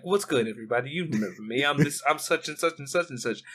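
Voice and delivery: flat monotone imitation. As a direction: lightly mimic a flat, cold villain. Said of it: "his monotone voice and him just being like".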